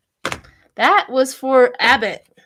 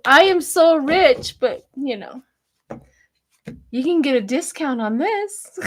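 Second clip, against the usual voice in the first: mock rich seller; 2 semitones higher than usual. Mocking rich Trumpers' sale.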